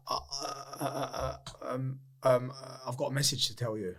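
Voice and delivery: soft, halting start; acted-out awkward, hushed stumbling; hesitant stammer. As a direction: fumble quietly for a way to break it. Awkward message for dead friend's mother.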